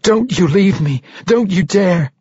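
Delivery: high, pleading anguish; desperate cry. A narrator's reading. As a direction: beg and order a dying loved one. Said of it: "Catti Bree cried".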